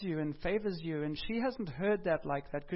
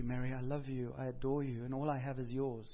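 soft, lower-pitched declaration of love; tender; 4 semitones lower, 5 dB quieter than usual. Acted. Preacher voicing loving words to Mary, tender and low. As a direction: speak softly and low, with tenderness.

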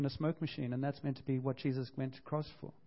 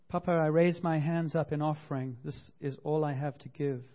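prayer reading. Shown as a demonstration. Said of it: "Maybe you'd like to read this with me".

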